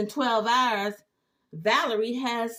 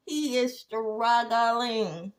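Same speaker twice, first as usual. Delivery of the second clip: slow emphasis; much slower than usual. Real, not acted.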